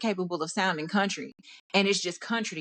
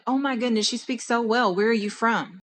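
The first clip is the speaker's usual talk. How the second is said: higher-pitched imitation of patronizing surprise; mock amazement; 3 semitones higher than usual. Stranger amazed she speaks so well, mock amazement. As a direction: gush as if astonished, mockingly.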